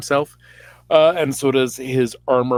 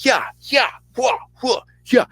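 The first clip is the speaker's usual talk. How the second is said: high, short mock martial-arts yelps; karate cries; 12 semitones higher than usual. Storyteller as Saul kicking soldiers, mock karate cries. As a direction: yelp with each imagined kick.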